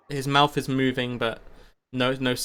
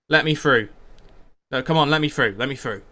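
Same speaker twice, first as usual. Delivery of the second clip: half-shouted push through a crowd; mild shout; 5 dB louder than usual. Acted. Someone at the back pushing to the front, mildly shouting. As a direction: call out insistently, easing off by the end. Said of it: "someone starts to kind of shout".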